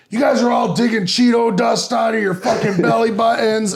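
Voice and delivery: high, loud raspy roast; raspy mock shout at the room; Dane's raspy voice. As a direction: yell at the newcomers like a drill coach. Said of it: "he's got a real graspy voice".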